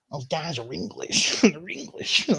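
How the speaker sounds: slow, mock-disgusted grumble; retold disgust. Waiter to the lassie in the kitchen, mock disgust. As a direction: imitate a waiter grumbling about unwelcome customers. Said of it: "like, proper disgust".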